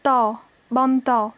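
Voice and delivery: "ta" alone, then "ban ta" joined slowly; syllable-by-syllable demo. Shown as a demonstration. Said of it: "et la deuxième syllabe".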